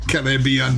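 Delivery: "Caribbean" slowed right down, stress on BEE; "Caribbean" drawn out the British way; British pronunciation. Shown as a demonstration. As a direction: say "Caribbean" slowly as ka-ruh-BEE-un. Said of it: "not listening to how an American pronounces".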